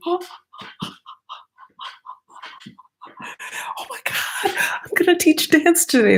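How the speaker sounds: over-excited. Retold or imitated. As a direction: gush about teaching dance. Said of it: "'cause I'm like".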